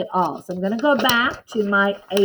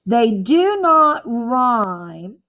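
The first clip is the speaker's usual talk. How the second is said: slow emphasis; 3 dB louder, much slower than usual. Shown as a demonstration. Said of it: "Please write this on your paper".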